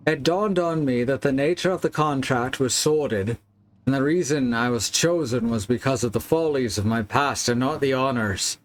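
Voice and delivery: put-on accent sliding towards Scottish; bad accent, drifting Scottish. Player reading Wilhelm's confession, bad accent drifting Scottish. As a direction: read formally in a wobbly, badly faked Scottish-leaning accent. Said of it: "Now I'm going Scottish".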